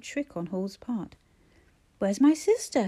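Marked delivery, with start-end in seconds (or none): 2.0-2.9 shouted demand. Acted. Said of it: "he wanted to shout".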